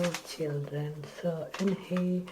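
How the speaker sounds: ordinary delivery, nothing marked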